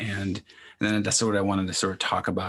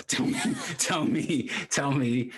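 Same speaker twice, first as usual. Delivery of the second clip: eager tell me; 6 semitones higher than usual. Real, not acted. Eager teasing prompt.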